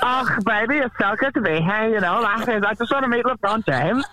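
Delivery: a hint of an eager American caller; Kyle Legacy impression. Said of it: "you sounded exactly like Kyle Legacy".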